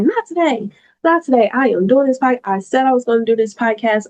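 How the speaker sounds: high-pitched, fierce "not today"; determined outburst. Retold or imitated. To her own swelling eye, a high, fierce refusal.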